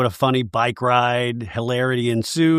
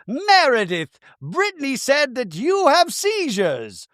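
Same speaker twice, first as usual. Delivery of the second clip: high, stretched-out dramatic reveal; hammed-up tattling in a high voice; mock accusation; 12 semitones higher, slower than usual. Bronwyn confronting Meredith about seizures, mock accusing.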